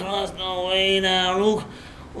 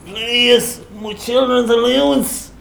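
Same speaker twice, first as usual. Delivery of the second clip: strained, raised begging; pained pleading; slower than usual. Acted. Man in robot's grip begs for mercy, pained. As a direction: plead through the pain. Begging while painfully gripped.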